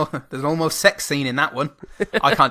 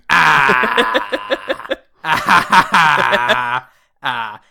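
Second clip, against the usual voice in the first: mock startled cries; 4 dB louder, much slower than usual. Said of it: "pointing at Jango Fett, going".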